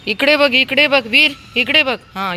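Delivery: loud, high insistent call; demanding attention. Real, not acted. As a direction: insist that a scolded little one looks at you. Demanding Veer's attention while scolding.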